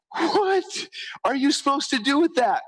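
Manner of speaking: puzzled by a bragging blog post's funnel picture, slow baffled question. Retold or imitated. Drag it out, mock baffled. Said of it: "And I was like".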